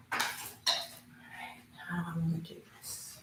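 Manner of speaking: very soft, half-whispered aside; under the breath, barely voiced; muttering to self. Real, not acted. Streamer talking to themself while setting up, muttering.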